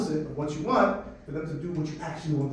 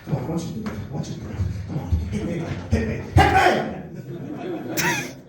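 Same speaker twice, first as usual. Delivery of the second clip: Joker-like taunting. Retold or imitated. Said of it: "turned me into the Joker".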